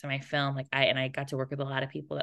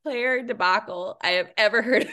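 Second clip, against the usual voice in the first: 1 imitating mom; 7 semitones higher than usual. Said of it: "My mom goes".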